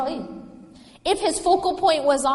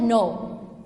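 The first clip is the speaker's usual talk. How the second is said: slow emphatic no. Shown as a demonstration. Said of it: "a very emphatic".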